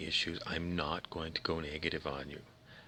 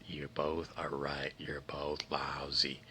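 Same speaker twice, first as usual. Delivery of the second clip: mock verdict; 4 semitones lower, 5 dB quieter, slower than usual. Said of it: "And I look at both of you and I say".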